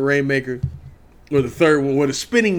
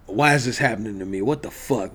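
much softer, low, stunned muttering of a panicked man; retold panic; 5 semitones lower, 7 dB quieter than usual. Stranded fan quietly panicking to himself, lost in the city. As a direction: talk to yourself as the panic sinks in. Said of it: "I'm panicking at this point".

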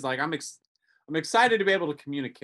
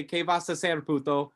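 coached phrase. Retold or imitated. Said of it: "go up to that guy and say".

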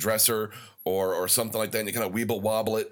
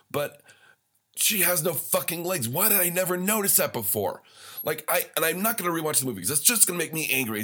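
higher, rising indignation; worked up; 6 semitones higher than usual. Real, not acted. Podcaster ranting to listeners, getting worked up. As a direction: get riled up over a silly movie detail. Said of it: "I'm probably getting worked up".

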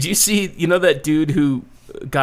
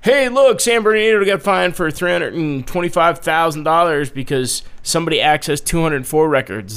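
excited; 5 semitones higher, 6 dB louder than usual. Retold or imitated. Mocking executives' reaction.

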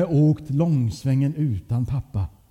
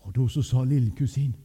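ordinary delivery, nothing marked

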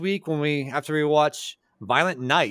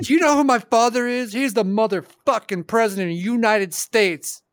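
put-on drunken posh sneer; 6 semitones higher than usual. Hunter role-play bragging.

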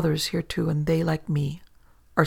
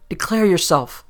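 whispered command; 2 semitones higher, 7 dB louder than usual. A narrator's reading. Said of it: "and whispered".

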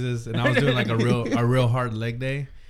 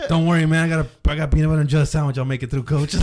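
louder hammed-up reassurance; louder mock brave text to the friend; 6 dB louder than usual. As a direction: ham up a brave report from the floor. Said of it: "I'm like".

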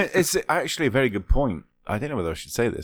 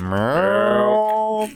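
high silly milk; 12 semitones higher, 8 dB louder than usual. Pretend.

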